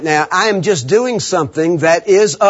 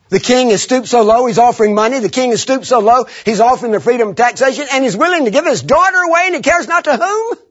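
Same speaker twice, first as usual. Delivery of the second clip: indignant build; 6 semitones higher, faster than usual. Retold or imitated. David indignant at king's offer.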